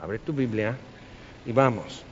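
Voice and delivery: soft hushed shushing, barely voiced; hushing whisper. Preacher hushes the binding-and-loosing crowd, whispered. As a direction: shush them and point to the Bible quietly. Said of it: "Y te".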